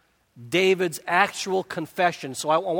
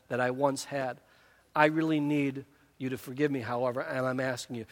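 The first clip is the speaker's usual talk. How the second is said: softer, lower sincere confession; sincere apology; 3 semitones lower, 5 dB quieter than usual. Retold or imitated. Husband confessing to his wife, soft and sincere. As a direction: apologise humbly to your wife. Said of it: "that sounds very good".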